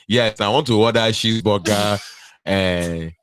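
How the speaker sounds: put-on Nigerian-accented fast-food order; imitated Nigerian customer accent; Lagos accent. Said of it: "it's like they're still in Lagos".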